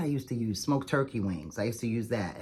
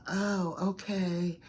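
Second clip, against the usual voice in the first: clerk's reply; 8 semitones higher, much slower than usual. Retold or imitated. Clerk's reply quoted in story.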